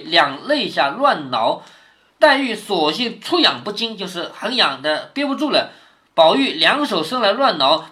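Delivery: reading the novel aloud, a notch livelier; reading classical prose aloud to a student; story reading. A narrator's reading. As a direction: read the chapter to the pupil with some spirit.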